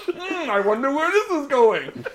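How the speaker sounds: high, sly, laughing wonder; teasing the plot twist with a laugh; mock curiosity. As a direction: play innocently suspicious. Mock-curious aside while watching.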